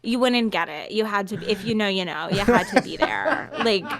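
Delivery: lightly mocked smug exchange student; study-abroad girl. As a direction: play the you-wouldn't-understand traveler. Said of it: "white American girl that studies abroad".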